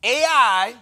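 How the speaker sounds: hyped shout. Acted. Hyping AI.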